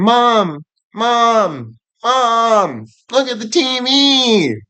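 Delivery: put-on high, excited little kid calling for mom; excited child. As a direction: squeal it like a thrilled child.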